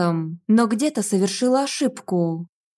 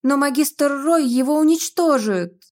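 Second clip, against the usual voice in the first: near tears; 5 semitones higher than usual. A narrator's reading. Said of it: "Едва ли не плакала я".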